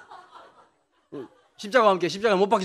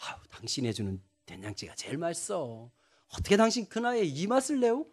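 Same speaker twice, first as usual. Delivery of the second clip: sweet husband praise; 3 semitones lower, 9 dB quieter than usual. Pretend. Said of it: "저 같으면".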